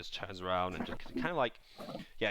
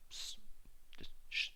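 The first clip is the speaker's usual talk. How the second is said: shushing; 11 dB quieter than usual. Acted. Shushing the others.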